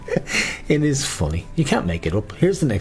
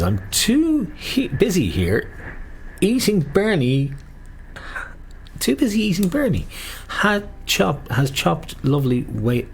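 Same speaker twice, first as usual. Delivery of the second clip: high reading voice; 8 semitones higher, slower than usual. Acted. Reading listener message aloud, high.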